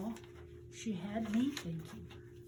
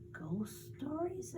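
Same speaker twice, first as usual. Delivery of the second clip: put-on alarmed boy; 6 semitones higher, 5 dB quieter, slower than usual. Boy alarmed by ghost stories.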